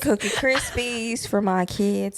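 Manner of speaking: Southern belle. Pretend. Country woman listing her chores, Southern belle accent. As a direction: play a proud country wife with a Southern accent. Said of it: "little Southern belle would say".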